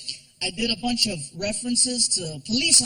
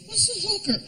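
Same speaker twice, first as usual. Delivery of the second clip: put-on higher, innocent child; kid voice; 10 semitones higher than usual. Son asking his dad at breakfast in a kid voice. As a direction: ask like a curious little boy.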